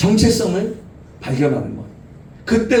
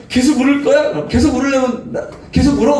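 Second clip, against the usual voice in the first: stern mother; 6 semitones higher than usual. Acted. Mother scolding crying child.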